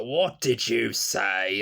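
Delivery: slow, loud, menacing question; boy suddenly snapping back in anger; sudden angry snap. Retold or imitated. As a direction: turn on them from sweet to threatening. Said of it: "tender-voiced character to saying things like".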